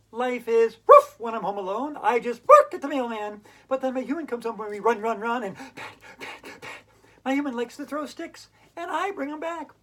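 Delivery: dog's-eye poem read loud and gleeful; silly sound poem. Acted. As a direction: bounce through it like a happy dog. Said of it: "I love making silly sounds".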